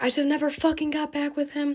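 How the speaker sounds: distraught, upset scream, crying out, pitched high. Speaker retells screaming while their mom phoned their aunt, retelling a scream. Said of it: "I was just screaming like".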